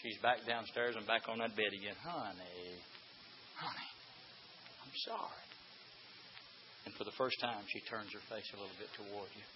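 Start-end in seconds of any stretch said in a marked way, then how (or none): 2.0-5.4 softer, tender apology to his wife; soft pleading husband. Retold or imitated. Husband begging his crying wife's forgiveness, softly. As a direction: coax her gently to turn round.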